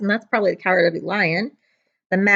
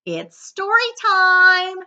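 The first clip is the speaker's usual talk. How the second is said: high, slow, sing-song story time; excited announcement; 10 semitones higher, 6 dB louder, much slower than usual. Acted. Teacher to her class, a slow high sing-song announcement. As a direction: draw it out to thrill the kids. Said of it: "Miss Smith said".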